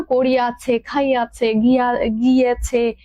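slow, stretched "করি আছে", "খাই আছে", "গিয়েছে"; lingering demonstration, each word form held long; drawn-out long forms. Shown as a demonstration. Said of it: "এই যে টান, একটা দীর্ঘ রূপ".

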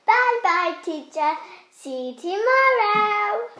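high, loud, gleeful farewell; cheerful goodbye. Acted. Pupil leaving school for the day, high cheerful call.

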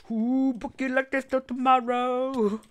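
high squealing panic; excited squeal. Real, not acted. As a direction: squeal it, running away in a panic. Panicked fleeing in game.

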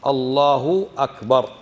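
slow "الله أكبر" with a clean glottal start on "أكبر"; "الله أكبر" carefully articulated, drawn out; correct takbir. Shown as a demonstration. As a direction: say "Allahu akbar" as two separate words, no w. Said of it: "جملة اسمية".

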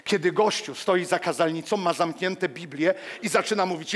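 normal talking voice

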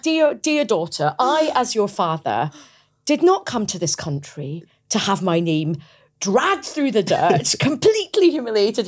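a hammed-up offended father, slow and formal; stern father's letter. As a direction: imitate a wounded Indian dad dictating a complaint letter. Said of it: "He wrote me a very strongly worded letter".

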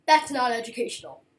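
a hint of a scolding teacher, loud and fast; stern teacher voice. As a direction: snap it out like a strict teacher. Teacher scolding in retold dream.

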